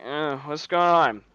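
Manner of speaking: slow, half-asleep mumbled question; slow and groggy, just roused; imitated groggy waking. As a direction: lightly act out someone barely awake. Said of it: "he doesn't really wake up very well".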